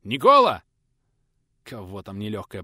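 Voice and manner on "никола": very loud, urgent shout of his name; calling out. Acted. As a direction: yell for him to come out. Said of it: "окликнули трудовика".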